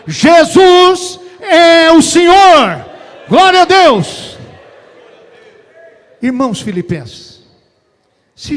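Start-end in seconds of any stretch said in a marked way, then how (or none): 0.1-4.4 slow, high, full-force preacher's shout; brado de exaltação. Real, not acted. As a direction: proclaim it at the top of the voice, drawing out each word. Clímax da pregação, exaltação. (brado exaltado de pregador, lento e agudo)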